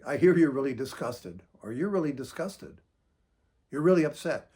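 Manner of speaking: steady calm echo; calm reflecting back. Shown as a demonstration. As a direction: acknowledge without taking the bait. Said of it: "you would say it like".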